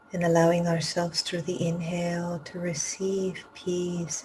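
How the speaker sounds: unhurried phrases with long pauses between; guided meditation. Real, not acted. Teacher leading students to empty the cup of the heart, guided meditation. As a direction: guide them gently inward, leaving room to breathe.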